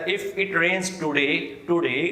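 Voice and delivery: very slow, with today said tu-de; Pakistani accent demo. Shown as a demonstration. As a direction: spell it out slowly in a Pakistani accent. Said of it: "Pakistan میں بھی اسی طرح ہی پڑھا جاتا ہے". (آہستہ پاکستانی لہجے میں جملہ)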